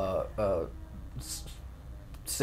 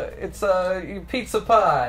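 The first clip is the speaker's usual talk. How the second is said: higher-pitched mock Brooklyn accent; 4 semitones higher than usual. Shown as a demonstration. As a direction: try out a hammy Brooklyn accent. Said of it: "what I can do with Brooklyn".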